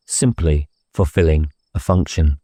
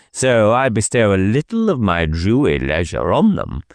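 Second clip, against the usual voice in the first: a lightly voiced, higher, dotty country vicar; eccentric vicar; 5 semitones higher than usual. Vicar teasing the inspector in a graveyard, lightly higher and dotty. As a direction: play the Reverend as gleefully odd.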